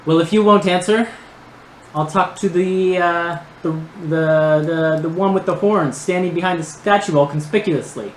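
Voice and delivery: lightly voiced nerdy villain; high-pitched nerdy voice. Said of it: "the voice continues".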